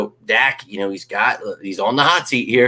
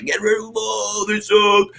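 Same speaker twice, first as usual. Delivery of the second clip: mock angry creator; 11 semitones higher than usual. Mocking creators calling for firings.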